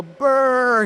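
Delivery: shivering brr like it's freezing; cold shiver brr. Shown as a demonstration. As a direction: say it as if you're cold. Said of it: "you won't hear me go".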